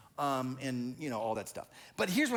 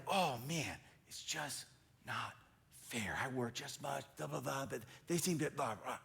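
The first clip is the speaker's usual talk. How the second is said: self-pitying whine; 2 semitones lower, 6 dB quieter than usual. Retold or imitated. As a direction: sulk it quietly. Pastor complaining unfair.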